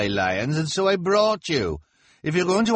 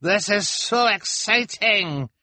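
much higher, louder, slow gush; much higher, louder thrilled man; excited cry; 7 dB louder, slower than usual. A narrator's reading. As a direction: squeal with excitement. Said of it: "cried the man".

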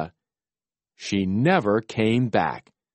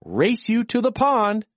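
playful challenge; 9 semitones higher than usual. A narrator's reading. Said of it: "Melinda croaked back".

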